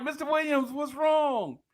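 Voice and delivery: mock little kid. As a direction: play it like a puzzled eight-year-old. Little kid asks teacher.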